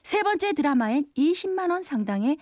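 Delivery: upbeat TV shopping pitch; home shopping host. Pretend. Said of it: "제가 홈쇼핑처럼 읽어드릴게요".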